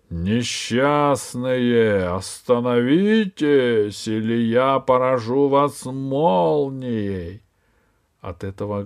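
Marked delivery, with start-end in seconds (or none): 0.1-7.4 медленный, громкий голос с небес; грозно и весомо, как с неба; громовой голос. Acted. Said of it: "послышался громовой голос". (голос с неба грозит стражникам, громово и медленно)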